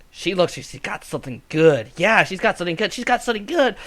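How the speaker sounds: a crow coveting something shiny; greedy crow. Acted. Crow eyeing the wine.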